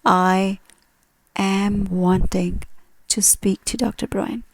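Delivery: slow, deliberate wrong phrase, am wanting stretched; slow wrong version. Shown as a demonstration. Teacher slowly shows students the wrong form. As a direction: spell out the mistake slowly. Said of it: "We don't say".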